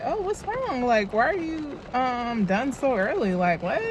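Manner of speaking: a hint of a concerned grandmother asking what's wrong; worried grandma. Grandmother asks why she's back.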